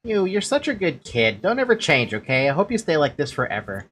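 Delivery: lightly voiced tender big sister, teasing; game dialogue voices.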